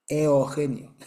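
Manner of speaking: Eugenio as e-o-HE-nio, o for u; gringo mispronunciation. Retold or imitated. Teacher imitating gringos' third attempt, Eugenio as eo-henio. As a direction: replace the u in Eugenio with o.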